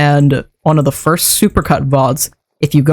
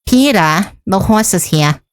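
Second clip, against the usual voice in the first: Lois Griffin; 3 semitones higher than usual. Shown as a demonstration. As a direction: do a lightly voiced cartoon mom. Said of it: "that's, like, a zero effort one".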